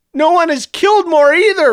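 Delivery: high-pitched shouting. Clovis answers the boasting Dr. Superior, shouting. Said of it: "Clovis shouted".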